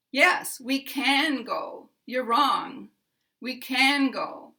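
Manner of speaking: slow, loud correction with "can" drawn out and punched; insist, hitting "can" high and hard; emphatic stress on CAN. Shown as a demonstration. Speaker tells the listener they're wrong, emphatic stress on "can". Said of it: "I can put stress on can".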